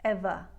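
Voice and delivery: "Ever" with no R, ending "evah"; non-rhotic. Shown as a demonstration. Coach pointing out the missing R, non-rhotic "Ever". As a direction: drop the R off "Ever". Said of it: "no R, non-rhotic".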